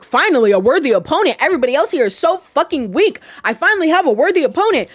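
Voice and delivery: mock elation at a worthy rival; gleeful villain. Burning Spice welcoming a worthy opponent, gleeful. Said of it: "he's happy about it".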